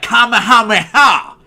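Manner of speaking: very high, loud battle cry; Japanese Goku voice. Retold or imitated. A host showing how Japanese Goku sounds, shrieking high. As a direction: scream it like an anime hero. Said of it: "Goku would talk like this".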